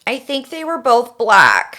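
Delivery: 911 caller. Acted. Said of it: "I am going to be Melissa".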